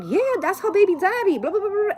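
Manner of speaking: put-on high, breezy kid voice; little girl's voice. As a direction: imitate a seven-year-old shrugging it off. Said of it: "The girl's like".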